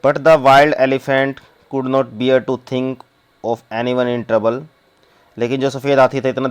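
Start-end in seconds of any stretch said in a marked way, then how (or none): 0.1-4.6 reads the English very slowly, word by word; slow story reading. Acted. Teacher reading the story text to the class, slow and deliberate. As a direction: spell the story out slowly for students.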